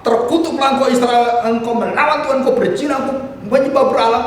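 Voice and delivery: high-pitched, driving denunciation; condemning prophet. Acted. Preacher voicing Elijah cursing idolatrous Israel, condemning. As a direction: pronounce the curse as an accusing prophet.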